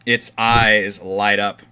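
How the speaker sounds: slow, deliberate horror storytelling; ominous game master narration. Acted. Game master describes the possessed Orvix, slow ominous narration. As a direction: draw out the creepy details, leaning on key words.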